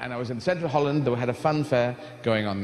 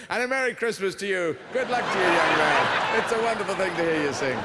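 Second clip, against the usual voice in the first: shouting pleasantries; 4 semitones higher than usual. Retold or imitated. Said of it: "shouting pleasantries".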